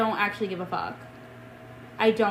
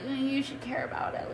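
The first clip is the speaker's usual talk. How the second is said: mock scolding; 4 semitones higher, 7 dB quieter than usual. Mimicking everyone scolding her.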